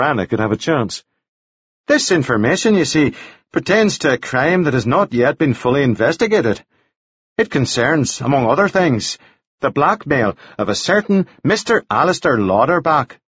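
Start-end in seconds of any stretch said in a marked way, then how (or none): 1.9-13.2 higher, formal character voice; measured reverend. Acted. Devlin withholds details from the widow, formal and measured. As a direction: explain it with careful, official politeness.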